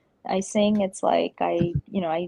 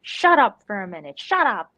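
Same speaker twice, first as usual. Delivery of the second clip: mock telling-off, building louder; put-on scolding that gets more forceful; Curly Q two impression; 4 dB louder than usual. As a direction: imitate someone winding everybody up. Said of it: "he's just winding everybody up".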